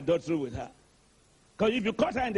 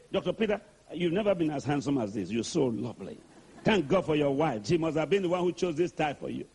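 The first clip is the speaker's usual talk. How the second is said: gentle Jesus; 5 semitones lower than usual. Acted. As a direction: flatter him gently, like a kind friend. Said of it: "Jesus will talk like that".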